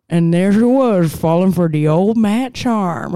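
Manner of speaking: exaggerated Louisiana accent impression. Host imitates Jack's favorite line from Dead Man Walkin', Louisiana accent. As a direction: do a crazy Louisiana movie accent. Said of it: "Louisiana type accent".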